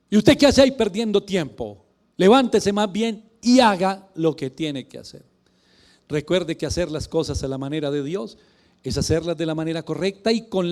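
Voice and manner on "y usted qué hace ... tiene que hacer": louder, brisk scolding "qué hace"; stern rebuke. Pretend. God rebuking Joshua lying on the floor, stern and brisk. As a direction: scold him to get up off the floor. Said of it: "imagino al Señor diciéndole".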